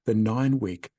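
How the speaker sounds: measured, scripted host sign-off; podcast outro read. Real, not acted. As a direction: read the closing message to listeners, neatly phrased.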